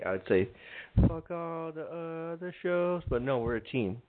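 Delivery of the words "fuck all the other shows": softer, higher sneering take; old AK. Retold or imitated. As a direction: toss off the old rude line. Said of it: "that's the old A K".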